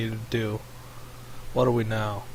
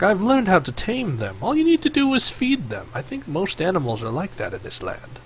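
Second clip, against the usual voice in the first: lightly voiced creature, pitched up; high, lilting snake explaining its trick; Snake Face; 6 semitones higher, 3 dB quieter than usual. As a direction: explain it in a light, raised character voice.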